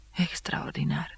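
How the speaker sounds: slow, whispered amazement; hushed exclamation. A narrator's reading. Impressed spectators whisper to each other in awe. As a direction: breathe "Extraordinar!" in awe. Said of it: "exclamau unii câștigați".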